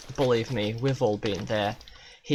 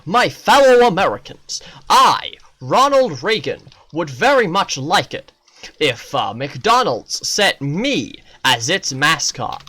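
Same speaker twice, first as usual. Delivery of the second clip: loud mock presidential address; a light Reagan speech voice; lightly voiced Reagan making a grand request; Ronald Reagan; 4 semitones higher, 7 dB louder than usual. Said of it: "He was like".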